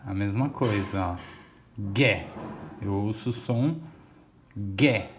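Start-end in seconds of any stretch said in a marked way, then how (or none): 1.9-2.3 "Gué" as GHÉ, hard G straight into open E; U mudo. Shown as a demonstration. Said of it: "Não ouço o som do U". 4.6-5.1 "gué" as a lone GHÉ, lower, no U; U mudo. Shown as a demonstration. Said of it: "Não ouço o som do U".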